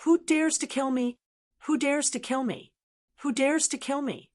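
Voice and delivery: high-pitched challenging shout, repeated. Acted. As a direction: call out the challenge high and proud. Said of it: "shouted three times".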